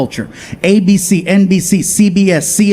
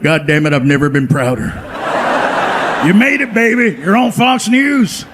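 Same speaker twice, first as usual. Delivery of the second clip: bus driver Dave; 2 semitones lower than usual. Retold or imitated. Bus driver Dave calling to congratulate, mock proud. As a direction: gush like a proud old friend. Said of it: "He was like".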